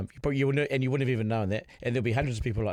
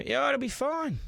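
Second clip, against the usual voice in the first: higher-pitched, easygoing mock reassurance; reassuring imitation; 12 semitones higher, slower than usual. Host imitating the guest's soothing words to his co-host, higher light reassurance. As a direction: lightly imitate a friend calmly promising it'll be fine. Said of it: "he's reassuring".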